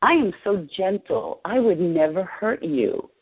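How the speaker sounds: slow, lightly voiced gentle reassurance; a hint of a soothing, kind voice, taken slowly. The voice in her vision reassures her, gently and slowly. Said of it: "this very beautiful and gentle voice said to me".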